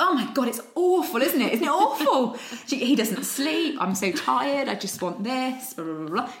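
high, loud, laughing overshare; over-the-top rant. Retold or imitated. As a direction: spill it all out breathlessly, laughing. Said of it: "like a real kind of rant".

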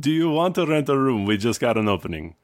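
lightly put-on Indian accent. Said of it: "to racist Indian accent".

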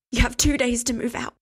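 breathless gasped order; gasping. Acted. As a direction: gasp it out, barely composed. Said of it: "she gasped".

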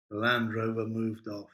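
usual speaking voice

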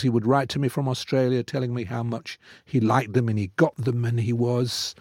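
usual speaking voice

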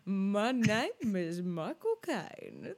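very slow, drawn-out parody of a bad impression; mocking imitation. Co-host mimicking the host's bad impression, mockingly slow. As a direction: exaggerate each word slowly, sending it up. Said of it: "what you're doing is like".

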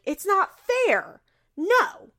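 hammed-up pouting complaint; mock whiny protest. Janelle protesting Christmas plans, high mock whine. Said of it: "And Janelle's like".

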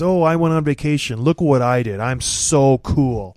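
lightly voiced smug show-off; mock show-off. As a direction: brag like a try-hard, drawing out cool. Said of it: "how cool J R is".

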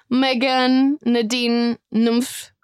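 badly imitated Italian accent, name by name. Friend imitating Italian man naming the girls, bad Italian accent. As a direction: attempt an Italian accent, each name set apart. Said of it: "but in an Italian accent".

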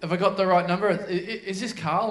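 stammering, unsure imitated caller; mock hesitant phone voice. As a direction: stumble through it as a confused caller. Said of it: "the voice goes".

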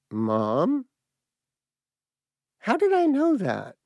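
high, bewildered cry to mother; a shaken kid who can't understand himself; distraught child. Retold or imitated. Boy asking his mother how he knew, high and distraught.

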